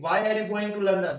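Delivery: very slow, word-by-word English example; slow careful reading. Shown as a demonstration. Teacher reading an example to students, very slow and deliberate. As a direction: dictate each word slowly for learners. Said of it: "यानी कि".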